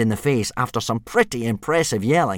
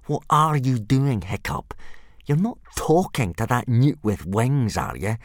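sneering; 2 semitones higher than usual. Acted. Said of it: "to lean over and sneer at Hiccup".

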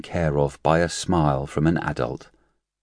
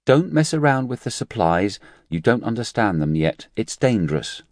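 nurse voice; 6 semitones higher than usual. Acted. Nurse's voice in narration.

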